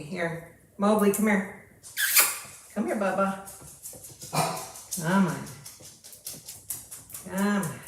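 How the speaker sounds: coaxing pet-calling voice; calling a dog. Real, not acted. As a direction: call the puppy over, coaxing. Calling the puppy over.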